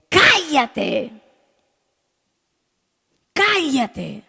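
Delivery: high falling command to be silent; rebuking voices. Retold or imitated. Preacher voices the crowd silencing Bartimeo, rebuking. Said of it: "comenzaron a".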